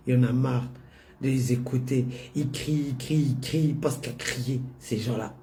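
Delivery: mild mock grumble of an old mother; grumbling old mother. Mother grumbling about protesters.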